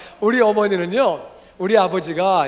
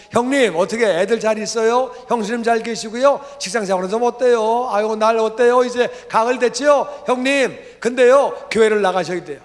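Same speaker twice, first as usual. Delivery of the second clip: higher, louder chatty phone greeting; acted eager small talk; 3 semitones higher, 5 dB louder than usual. Younger brother phoning older brother with small talk, acted eagerness. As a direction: rattle off friendly questions, acting it out.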